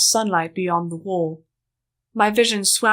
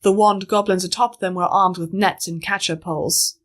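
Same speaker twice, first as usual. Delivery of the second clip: ordinary delivery, nothing marked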